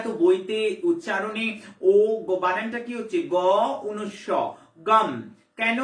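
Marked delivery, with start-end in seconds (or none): 4.9-5.1 গম with a closing M sound; anusvara said as M. Shown as a demonstration. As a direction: end গম on a clear M, lips closed. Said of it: "গ উনস্ব ম উচ্চারণ করছি".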